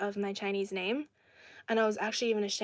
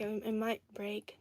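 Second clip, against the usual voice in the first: whisper; 6 dB quieter than usual. Retold or imitated. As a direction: drop to a whisper on the quote. Retold quote trailing off.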